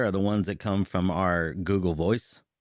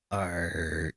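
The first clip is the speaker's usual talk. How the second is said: pirate; 2 semitones lower than usual. Pretend. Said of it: "so I was doing it as a pirate".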